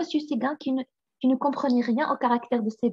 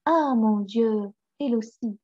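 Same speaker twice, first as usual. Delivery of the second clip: stunned cry; 2 semitones lower than usual. Acted. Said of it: "cria monsieur Séguin, stupéfait".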